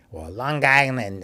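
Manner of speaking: Long Island said the New York way, run together as Lon-Gisland; imitating mom saying Long Island with a hard g; mock New York mom saying Long Island; mother's Long Island accent. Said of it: "as my mother said".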